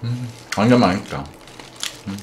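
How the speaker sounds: talking with mouth full; speaking between bites of meat; chewing. Real, not acted. Seen 0: Puts meat in mouth at -1, jaw chewing throughout the labelled words.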